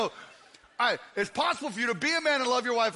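usual speaking voice

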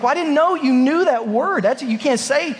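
dad scrambling to explain; mock-flustered parent. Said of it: "And I was like".

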